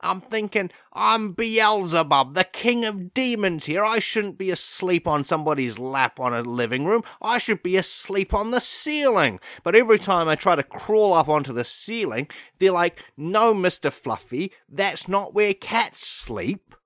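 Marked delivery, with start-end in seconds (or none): 0.9-9.4 the king of demons affronted on a lap; pompous indignation. Acted. Demon's indignant inner thought. 13.2-16.7 slow, higher, patronising pet talk; gentle scolding owner. Retold or imitated.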